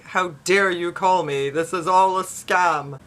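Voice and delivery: slow, mildly indignant put-on voice; mock shouting. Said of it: "People shouting".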